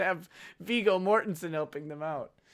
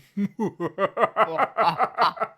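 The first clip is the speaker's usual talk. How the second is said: mock villain laugh; hammed-up evil chuckle; deep laughter. A narrator's reading. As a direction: laugh like a menacing caller. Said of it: "Deep laughter came from the other line".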